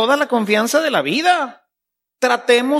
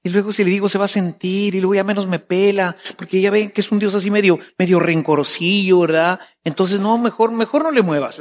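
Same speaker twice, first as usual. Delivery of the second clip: hesitant worried believer; faster than usual. Retold or imitated. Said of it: "Si no hay confianza".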